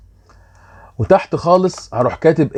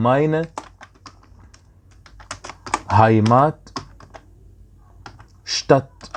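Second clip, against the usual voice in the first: slow demo; much slower than usual. Shown as a demonstration. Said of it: "teacher models German word".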